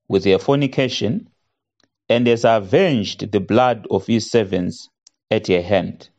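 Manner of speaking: solemn scripture reading voice. Acted. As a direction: proclaim the verse from the pulpit. Reads scripture aloud.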